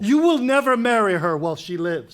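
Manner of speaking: loud, hard declaration; loud threat. Acted. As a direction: lay down the law. King's threat.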